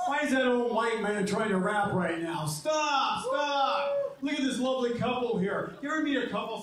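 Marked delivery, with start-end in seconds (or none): 2.5-4.2 shouting stop. Real, not acted. Stopping himself.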